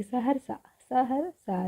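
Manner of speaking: सहरसा with full स and ह, very short र; touch the र in सहरसा briefly, then सा. Shown as a demonstration. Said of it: "र का उच्चारण बहुत थोड़े समय के लिए". (सहरसा में र बहुत थोड़े समय के लिए)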